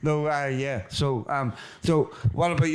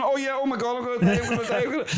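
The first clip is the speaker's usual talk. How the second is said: mock panic; 7 semitones higher, much faster than usual. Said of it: "what was it doing".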